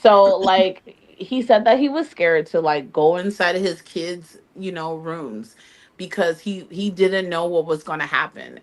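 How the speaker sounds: put-on bubbly Valley Girl accent; lightly voiced Valley Girl. Shown as a demonstration. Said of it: "tap into it".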